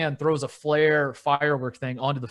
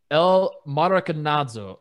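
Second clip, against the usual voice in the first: El Maracanazo said slowly, rolling it out with a Spanish accent; careful try at El Maracanazo in a Spanish accent; slow Spanish accent attempt; slower than usual. Shown as a demonstration. Retrying the Spanish name for his cohost, slow Spanish accent. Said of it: "Let me try this again".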